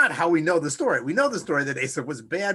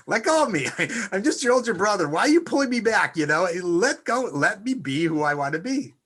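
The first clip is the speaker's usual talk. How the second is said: Esav protesting; 3 semitones higher, 4 dB louder than usual. Acted. Esav voiced protesting brother.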